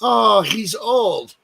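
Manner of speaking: drawn-out loud shrug of a bystander; mock bystander. Host mocking how people excuse old men, slow and loud. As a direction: drag it out like an onlooker excusing him. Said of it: "everyone else is like".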